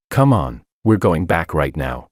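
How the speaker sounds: plain reading voice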